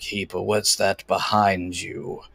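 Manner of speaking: ponderous, deep, slow giant voice. The game master voices a giant addressing the players, deep giant voice. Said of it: "you hear a deep voice speaking in giant".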